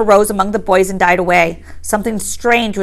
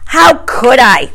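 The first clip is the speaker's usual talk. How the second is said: higher, louder and slow indignation; indignant; 4 semitones higher, 5 dB louder, slower than usual. A narrator's reading. Piggy protesting to Ralph, indignant. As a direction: throw the question back, offended. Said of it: "cried Piggy indignantly".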